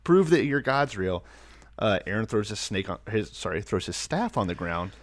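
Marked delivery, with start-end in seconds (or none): 0.0-1.2 demanding Pharaoh. Pretend.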